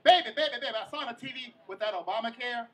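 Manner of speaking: loud start, then a mild tipsy ramble; drunk grandma. Retold or imitated. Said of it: "My grandma was so drunk".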